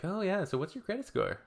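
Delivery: mock chatty small talk. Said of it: "I'm like".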